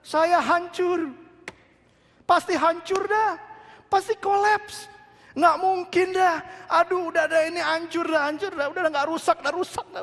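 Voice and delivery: mock someone wailing their life is wrecked; hammed-up despair. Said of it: "Ada yang bilang begini".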